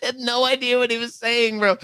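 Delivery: high, laughing through the words. Real, not acted. Laughing at own mix-up over the receipt, amused. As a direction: crack up while speaking, pitch way up.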